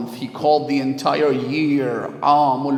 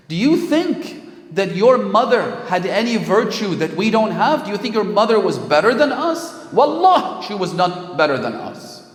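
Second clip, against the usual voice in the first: scornful taunt; 4 semitones higher, 3 dB louder than usual. Retold or imitated. Woman taunting Fatima Zahra.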